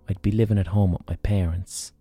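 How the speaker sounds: ordinary talk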